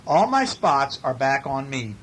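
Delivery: animated picture-book read-aloud; story reading. A narrator's reading. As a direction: read it with big, stretched key words.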